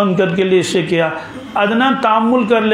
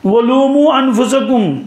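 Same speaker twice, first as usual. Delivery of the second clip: higher, slow recited verse; raised, slow Quranic recitation; 6 semitones higher, slower than usual. Acted. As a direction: lift and stretch the verse out.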